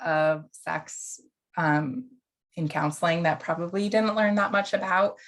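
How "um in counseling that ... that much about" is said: normal talking voice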